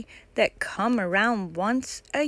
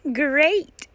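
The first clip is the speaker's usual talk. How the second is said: forced cheer; 6 semitones higher, 5 dB louder than usual. Acted. Pippa covering up, anxious.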